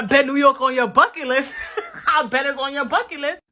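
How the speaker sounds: teasing through a laugh; laughing taunt. Real, not acted. Teasing a hater about visiting New York, laughing. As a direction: say it while laughing at them.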